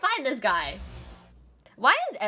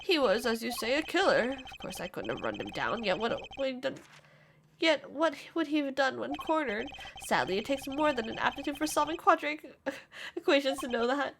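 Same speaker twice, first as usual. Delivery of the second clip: lightly voiced condescending witness; a hint of a smug pedant explaining; insufferable witness; 2 semitones higher, 3 dB quieter than usual. Witness answers why he didn't chase, mildly condescending.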